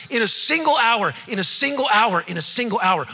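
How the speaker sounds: "single" punched on each of the three takes; emphasized repetition. Shown as a demonstration. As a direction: hammer "single" three times, fading slightly. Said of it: "Three times, John emphasizes".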